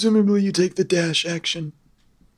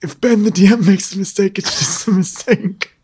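lightly voiced old uncle; Uncle Grandpa voice. DM excusing his bad accents, as Uncle Grandpa. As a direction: narrate as a slightly old uncle figure. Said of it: "with the Uncle Grandpa voice".

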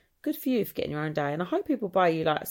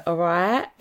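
loud, pointed "all right"; mock confrontational hello; row-starting greeting; 6 dB louder than usual. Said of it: "where we'd row someone".

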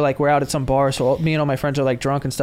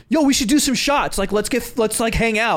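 overeager; 5 semitones higher than usual. Retold or imitated. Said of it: "He was overly like".

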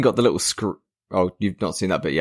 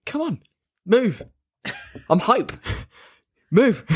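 impatient hype; 13 semitones higher than usual. Retold or imitated. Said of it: "And I'm like".

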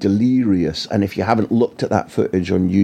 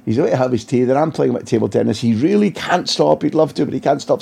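mock bodyguard excuses; 4 semitones higher than usual. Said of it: "mock bodyguard P R officer tone".

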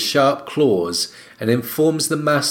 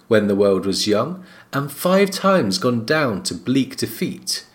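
grave ancient myth telling; 4 semitones lower than usual. A narrator's reading. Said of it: "She thinks".

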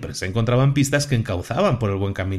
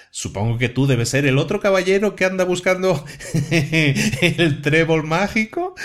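talking rock; 4 semitones higher than usual. Acted. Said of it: "Era Stone, la madre de las piedras".

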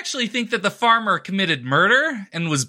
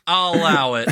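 voice cracking. Real, not acted. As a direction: voice cracks on purpose. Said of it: "My voice cracked for emphasis".

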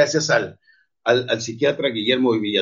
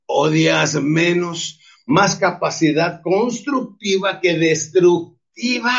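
fervent shout; 3 semitones higher, much slower than usual. Real, not acted. Fervent motivational climax.

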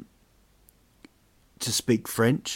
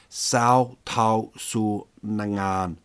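slow, hammed-up kung fu movie line; karate movie voice; much slower than usual. Shown as a demonstration. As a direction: declaim it like a martial arts film. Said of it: "like a karate movie".

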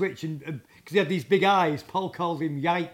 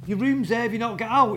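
incredulous; 6 semitones higher, 4 dB louder than usual. Retold or imitated. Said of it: "I went".

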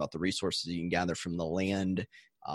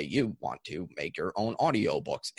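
flat, even robotic monotone; 3 semitones lower than usual. Pretend. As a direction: drone it out like a machine. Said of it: "talk like a robot and say".

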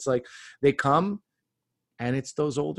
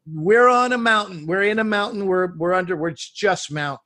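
exasperated disbelief; 6 semitones higher, 5 dB louder than usual. Retold or imitated. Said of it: "you're going".

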